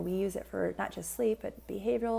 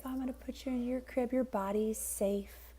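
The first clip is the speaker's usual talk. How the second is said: parentese; 4 semitones higher than usual. Shown as a demonstration. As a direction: coo it gently to a baby at bedtime. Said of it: "You might say something very sweet like that".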